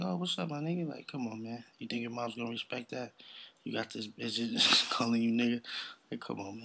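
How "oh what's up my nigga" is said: higher casual greeting; imitating the lady. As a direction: mimic her, higher pitched. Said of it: "she's like".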